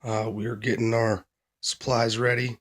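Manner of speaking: hoarse from a cold; scratchy, worn voice; raspy voice. Real, not acted. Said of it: "I'm sorry about the raspy voice".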